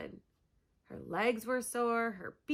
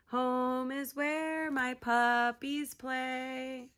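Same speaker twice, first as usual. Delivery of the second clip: rhyming verse; 3 semitones higher than usual. Acted. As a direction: recite it gently like a lullaby. Dog recites rhyme.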